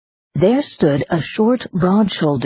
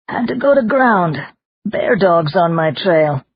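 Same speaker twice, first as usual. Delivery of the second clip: lively little man voice; 3 semitones higher than usual. Acted. Pegleg's gruff arrival lines.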